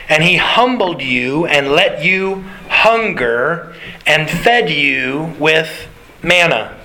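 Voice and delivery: slow, measured Bible reading; solemn scripture read at an unhurried pace. Acted. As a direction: read the verse deliberately, word by word. Reads scripture aloud slowly.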